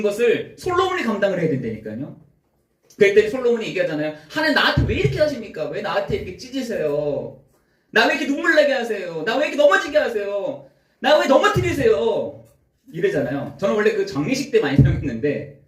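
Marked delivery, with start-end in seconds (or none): 4.3-12.4 high, pleading cry of complaint; crying out to God. Acted. Solomon crying out to God in his pain, pleading. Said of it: "솔로몬이 하나님께 막 외치는 겁니다".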